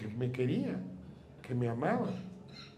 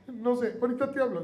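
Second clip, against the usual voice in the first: higher voice of a worried mother on the phone; mock anxious mom, pitched up; mother's voice; 9 semitones higher, 5 dB louder than usual. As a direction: play the mom, hurried and evasive.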